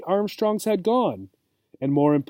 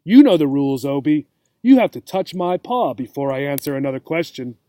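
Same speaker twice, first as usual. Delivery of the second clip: scolding; 3 dB louder, faster than usual. Acted. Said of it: "as if the little gerbil was being very naughty".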